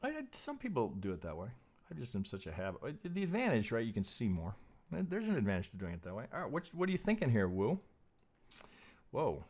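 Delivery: normal talking voice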